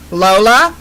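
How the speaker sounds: high breathy mom calling; calling mother. A narrator's reading. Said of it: "the high-pitched, breathy voice ... called".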